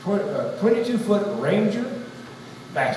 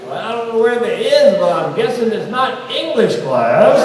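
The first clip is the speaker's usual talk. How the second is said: imagined yell back; 4 semitones higher, 5 dB louder than usual. Retold or imitated. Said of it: "not to yell back".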